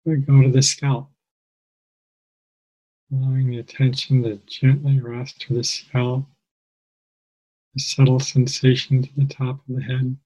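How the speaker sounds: calm, measured meditation guide with long pauses; guided meditation. Real, not acted. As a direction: guide listeners gently, phrase by phrase, leaving space.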